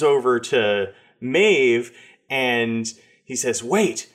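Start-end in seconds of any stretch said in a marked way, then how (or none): 3.6-4.1 high, urgent cry of recognition; crazed homeless man. Acted. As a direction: play a wild-eyed street prophet calling out. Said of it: "maybe he's just crazy".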